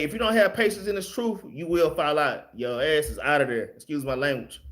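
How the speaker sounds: ordinary delivery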